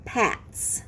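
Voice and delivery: Pats whispered softly, with a hissing s; whispered word model. Shown as a demonstration. Teacher whispering the word to the class. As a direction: softly breathe Pats, stressing the s. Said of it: "the word is pats".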